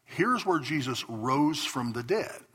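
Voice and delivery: slow, deliberate tour-guide statements; statement of fact. Retold or imitated. Guides telling tourists where Jesus died, slow and matter-of-fact. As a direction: lay it down as plain fact, slowly. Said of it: "They don't say it as a question".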